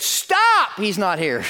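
piercingly high, loud halt, then easing; acted shout. Singer breaking off her second take, high acted shout. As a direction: mimic a dramatic singer crying out.

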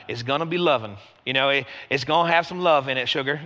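a touch of Southern charm on each word; Southern accent. Retold or imitated. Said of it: "hearing this in my head with a Southern accent".

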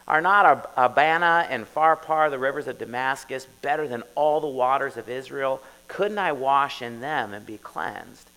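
mock-outraged Naaman; indignant general. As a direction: read it as a proud man insulted. Angry Naaman quoted from scripture.

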